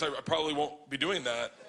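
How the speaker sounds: retold answer, kept completely serious; dead serious. Old man turning down the comedian, dead serious. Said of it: "dead serious".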